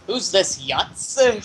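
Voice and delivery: slow, scornful sneer; dismissive. Acted. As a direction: look down on him, drawn out. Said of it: "she says".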